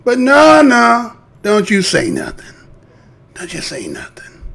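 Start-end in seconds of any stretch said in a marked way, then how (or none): 3.4-4.4 much softer, sarcastic shushing; mock hush. Mocking those who tell him to stay silent, very soft. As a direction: drop it right down, mocking.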